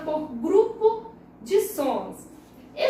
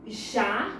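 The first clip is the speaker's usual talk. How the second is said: "Janela" split into ja... ne... la; "Janela" in separate beats, ja, ne, la; syllable by syllable; 3 semitones lower than usual. Shown as a demonstration. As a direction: say "Janela" as three syllables with pauses between. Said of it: "separar as palavras".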